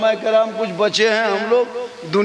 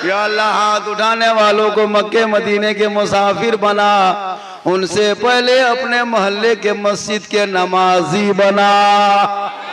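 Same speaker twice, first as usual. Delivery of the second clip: chanting prayer with a long held ending; public supplication; slower than usual. Real, not acted. Preacher praying for the hand-raisers, drawn-out supplication. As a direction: intone it, stretching the last word. Prays before the crowd.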